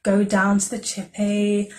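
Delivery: a light Essex lilt, slow and chummy; imitating the Essex guy's accent, gently. Imitating the Essex guy to viewers in a light Essex accent. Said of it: "the author writes in his accent".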